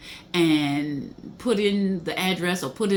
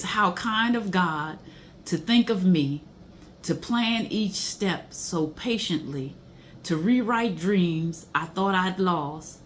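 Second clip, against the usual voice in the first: slow, tender reading of song words; reverent lyric reading; slower than usual. Acted. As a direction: let each line land slowly, like a prayer. Reads song lyrics slowly.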